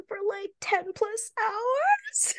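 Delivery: whispered aside, no voice; whispering. Real, not acted. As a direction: breathe it as a secret. Dreading long flight with him.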